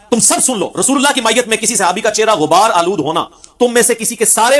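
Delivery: emphatic proclamation. Retold or imitated. Companion telling everyone to listen, emphatic proclamation.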